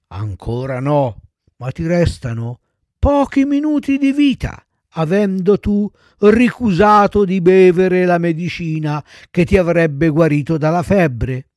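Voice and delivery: lightly voiced solemn undertaker; ominous rabbit. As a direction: pronounce it like a mild death sentence. (becchino solenne, appena accennato)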